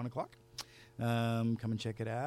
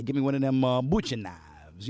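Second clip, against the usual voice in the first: boss demanding; 7 dB louder than usual. Acted. Boss voiced in spoken word.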